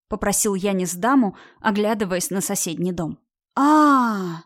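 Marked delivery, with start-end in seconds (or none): 3.5-4.4 a loud, hearty mocking guffaw; loud laughing cry. A narrator's reading. Woman laughing loudly at a naked man in her tree. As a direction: laugh out loud, not caring who hears. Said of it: "ещё громче закричала женщина".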